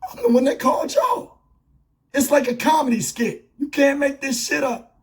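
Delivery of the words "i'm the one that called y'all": voicing the victim's outraged cry; indignant shout. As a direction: shout it as the man who called the cops. Old man protesting to police.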